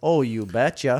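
put-on you betcha in a Minnesota accent. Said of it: "Why are you doing a Minnesota accent".

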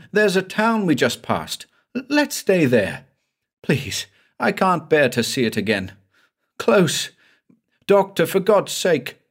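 high, stammering terrified pleading; frightened pleading. Acted. Terrified patient begging his doctor to turn back, high pleading. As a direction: beg in a high shaking voice. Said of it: "Then he began to plead".

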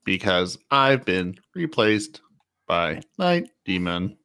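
metallic robot voice. Acted. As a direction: speak like a machine. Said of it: "Why do you sound like a robot?".

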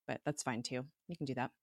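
ordinary delivery

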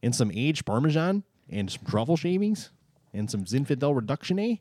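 lightly mock Canadian accent; a hint of put-on Canadian questioning. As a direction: offer it like a caricature Canadian. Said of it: "You know you're in Canada when".

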